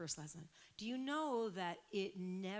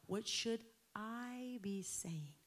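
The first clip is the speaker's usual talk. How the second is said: whispered; 3 semitones higher, much slower than usual. Real, not acted. Intimate prayer to Spirit.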